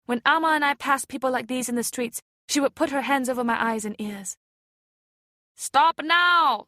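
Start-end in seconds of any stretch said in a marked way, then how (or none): 5.5-6.7 loud, high sharp rebuke; scolding. A narrator's reading. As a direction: cut the men off with a firm scold. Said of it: "scolded the woman in the boat".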